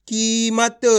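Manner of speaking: कीमत slowly, with a long ee in की; blended sounding-out. Shown as a demonstration. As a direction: join the sounds of कीमत, stretching the first vowel. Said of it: "आपस में मिला के पढ़ना है".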